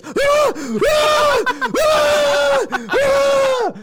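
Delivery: high, loud repeated mock screams; freak-out screams. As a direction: scream over and over like a panicking dog owner. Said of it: "she starts freaking out".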